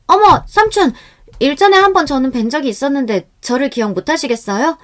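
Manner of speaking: put-on high, loud young woman's greeting; cheerful calling out. A narrator's reading. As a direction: call out brightly as if greeting an uncle. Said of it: "명령하게 외치는 동안".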